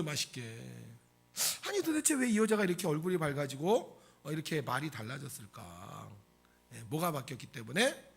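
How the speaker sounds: usual speaking voice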